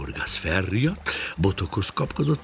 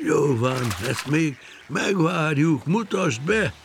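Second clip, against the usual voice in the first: indulgent, raised voice; smiling agreement; 8 semitones higher, 3 dB louder than usual. Acted. Old fish granting the fisherman one more trick, smiling consent. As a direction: give in with a smile, louder and higher. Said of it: "mosolyogva intett".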